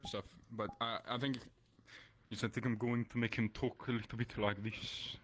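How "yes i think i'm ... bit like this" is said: deeper voice. Shown as a demonstration.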